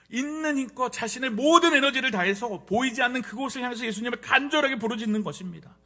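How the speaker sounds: loud, high, impassioned preaching; full-force preaching. Real, not acted. Preacher tells how the man cried with all his strength, impassioned. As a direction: preach it with all your energy.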